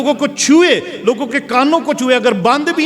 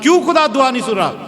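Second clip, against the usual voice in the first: high, driving pulpit voice; full-force sermon delivery; fiery preaching; 4 semitones higher than usual. Acted. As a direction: preach it hard to the congregation.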